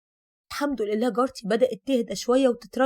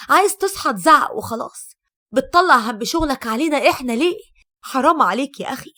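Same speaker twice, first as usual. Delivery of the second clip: louder, irritated outburst at a husband; exasperated scolding; 5 dB louder than usual. Acted. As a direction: scold him in fed-up exasperation. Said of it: "وقلت له بغيظ".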